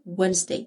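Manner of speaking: Wednesday said "WENZ-day", with no d sound; silent D. Shown as a demonstration. Teacher points out the silent letter, Wednesday without d. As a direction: leave out the d in Wednesday. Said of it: "هنا ال D silent، مش بننطقها".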